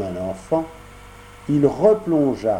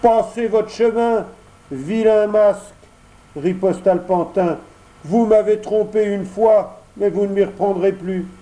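high, louder puppet voice, scornful; Pinocchio refusing; 8 semitones higher, 3 dB louder than usual. Acted. Pinocchio scornfully rebuffs the fox and cat. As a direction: send the swindlers packing.

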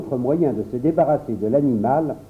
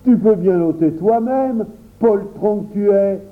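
raised, higher scolding voice; indignant; 5 semitones higher, 3 dB louder than usual. A narrator's reading. Boy scolds his cowardly friend, indignant. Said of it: "reprit Henri avec indignation".

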